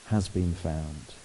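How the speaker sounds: slowing down, fading soft at has been found; joyful. Pretend. Preacher voicing the shepherd glad the sheep is found, softly. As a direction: savour the joy, gently and slowly. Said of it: "But rather".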